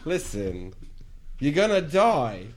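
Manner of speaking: mock Australian menace. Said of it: "It just sounds a little British".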